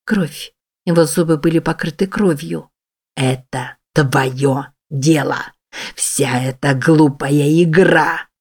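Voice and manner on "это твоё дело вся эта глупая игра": slow, low snarl, spitting each word; very slow, menacing creature growl; monstrous snarl. Acted. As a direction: snarl it slowly in her face like a beast. Monster snarls in her face.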